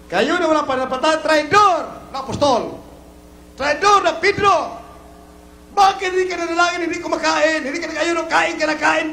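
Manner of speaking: pressing, scolding sermon delivery; impassioned preacher's reprimand; preaching rebuke. Acted. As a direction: scold the faithless from the pulpit.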